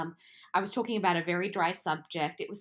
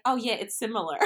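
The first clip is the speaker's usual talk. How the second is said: laughing; 5 semitones higher, faster than usual. Retold or imitated. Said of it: "I would just be like".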